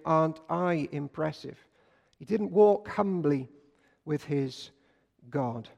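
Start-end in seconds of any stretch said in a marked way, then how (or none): 0.1-1.6 mock self-important boast. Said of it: "lived his life saying".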